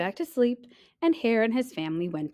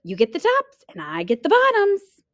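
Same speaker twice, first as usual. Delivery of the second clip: much higher, loud call; 12 semitones higher, 8 dB louder than usual. Acted. Hare calling sleeping bear at harvest, loud. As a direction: shout it across the field. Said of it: "Hare called out".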